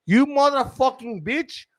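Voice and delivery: high-pitched mock outrage; angry cursing. Gas guy cursing the trainee before spitting, angry. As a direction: retell it as a high, indignant curse.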